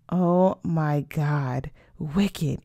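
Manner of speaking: slow, drawn-out reaction; stunned by liquor. Acted. Sophia reacts to first mezcal shot, stunned. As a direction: drag the words out as the shot hits.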